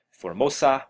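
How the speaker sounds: "Formosa" with a light Italian lilt, like for-MO-za; a playful Italian-accented "Formosa". Real, not acted. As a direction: say "Formosa" the Italian way, open vowels and a rolling lilt. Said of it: "why I said Formosa in an Italian accent".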